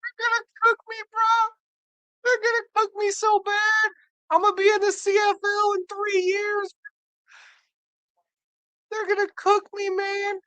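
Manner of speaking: very high whimpering mock sob voice; hammed-up tearful rookie, squeaky high; mock crying. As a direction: whine it way up high like a kid about to cry. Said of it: "That's why he's crying".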